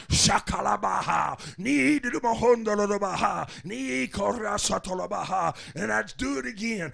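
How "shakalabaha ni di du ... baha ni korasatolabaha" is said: speaking in tongues. Retold or imitated. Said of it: "Then I'd pray in tongues".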